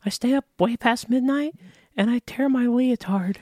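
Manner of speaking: goofy cartoon wrestler voice; Hulk Hogan impression. Guest mocks Hulk Hogan to the host in a high put-on voice. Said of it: "talks like this".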